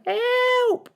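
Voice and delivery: very high squeal for help; frightened cry. A narrator's reading. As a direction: squeal it in panic. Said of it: "the other one cried".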